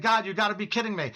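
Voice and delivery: high, fast, panicked plea; panicked disbelief. Retold or imitated. Retold panic in hell.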